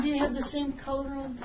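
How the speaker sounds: laughing. Real, not acted. Joke about the two Todds.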